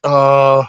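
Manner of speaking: long drawn-out weary "oh"; groggy groan. Retold or imitated. Reader on dozing off over a book, groggy groan. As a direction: groan as if just waking up. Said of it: "and I'm like".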